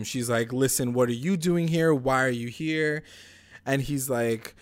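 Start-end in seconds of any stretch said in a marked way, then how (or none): 0.6-3.0 mildly raised, higher mock confrontation; retold yell. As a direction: imitate someone yelling, only half-heartedly. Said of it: "like, yells at him".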